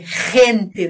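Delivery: "gente" with a rasped, untrilled first sound; throaty Spanish G. Shown as a demonstration. Teacher contrasts G with trilled R, throaty "gente". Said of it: "na garganta".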